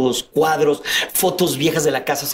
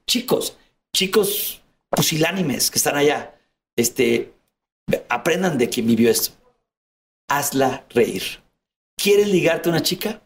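consejo solemne en broma, más grave y pausado; aconséjalos como un sabio de mentira; mock sermón; slower than usual. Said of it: "consejo solemne a los chicos". (sermón burlón, grave y pausado)

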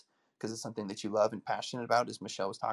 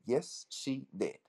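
Kevin Hart bit; 9 semitones higher, slower than usual. Retold or imitated. Kevin Hart joke retold as a high comic kid. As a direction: squeak it out like a tattling kid. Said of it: "No, I'm just kidding".

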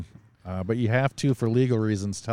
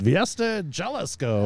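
Spanish-style name; 7 semitones higher, slower than usual. Shown as a demonstration. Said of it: "or whatever it's called".

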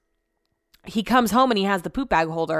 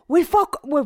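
imitating an upset husband, much higher; mock-angry high-pitched impression, breaking off; Brett; 9 semitones higher, 3 dB louder than usual. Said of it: "he's mad at me".

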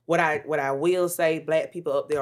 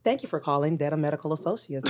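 polite receptionist answering the phone; work phone voice. Shown as a demonstration. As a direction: put on your professional call-centre voice. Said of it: "let me hear your work voice".

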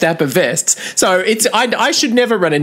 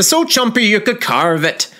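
put-on a weak Scottish accent from an old dog food ad; lightly put-on Scottish voice, barely there; bad Scottish accent. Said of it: "I can't do Scottish".

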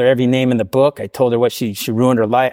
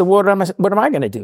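mock pleading; 8 semitones higher than usual. Retold pleading with daughter.

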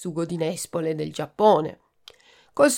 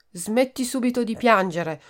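bossy order; 4 semitones higher than usual. Acted. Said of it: "ordinò donna Prima".

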